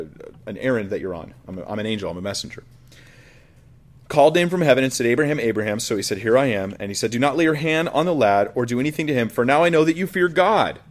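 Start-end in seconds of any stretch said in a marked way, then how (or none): 4.1-10.8 raised, solemn Bible reading; scripture reading. Acted. Preacher reading Genesis to the congregation, solemn. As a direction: read it as the drama builds.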